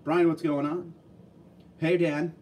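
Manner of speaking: a hint of Ace Ventura greeting Dan Marino; mild Ace Ventura impression calling to Dan. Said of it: "I always have to do that in the Ace Ventura voice".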